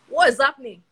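loud, indignant outburst; indignant demand. Acted. Older brother hearing strange celebration at home, indignant demand. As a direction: burst out demanding an answer.

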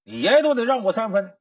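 half-acted grumbling at the young masters; mild mock rant of an old servant; mock cursing. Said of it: "来气天天骂骂咧咧".

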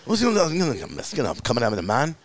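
imitating mumbled, unintelligible Liverpool English; thick Liverpool accent. Comic retelling of a band in their documentary, thick Liverpool accent. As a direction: garble it like a thick Liverpool speaker. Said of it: "has subtitles speaking English".

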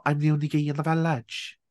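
cartoon Welsh catchphrase voice; caricature Welsh accent. Shown as a demonstration. Offering the other caricature they can do, mock Welsh accent. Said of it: "those two are both caricatures of".

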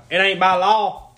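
stare them down and repeat the rule, loud; mimicking a belligerent guy refusing a mask; stubborn loud retort. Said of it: "That's what he said, like, three times, like, dead stare".

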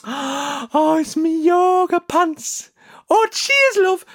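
high, gushing voice, drawn-out; mock delighted influencer. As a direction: squeal with joy over the parcel. Influencer opening parcel.

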